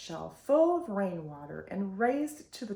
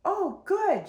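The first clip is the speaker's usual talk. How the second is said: exclaiming; 10 semitones higher, 4 dB louder than usual. A narrator's reading. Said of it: "Eulalie exclaimed".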